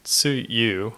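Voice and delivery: tsuyu with emphasis on the closing yu; stress on second syllable. Shown as a demonstration. Learner repeating the rainy season word, stress on the YU of tsuyu. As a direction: put the weight on YU in tsuyu. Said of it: "with the emphasis on the yu".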